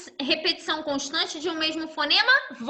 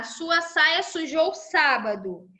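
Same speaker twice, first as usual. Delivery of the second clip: slow example read; slower than usual. Shown as a demonstration. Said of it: "Então, tá lá".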